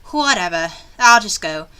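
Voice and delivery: acted complaining inner monologue; expressive read, dreading the errand; reluctant game heroine. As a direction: grumble through it as the uneasy heroine. Reads heroine's reluctant thoughts aloud.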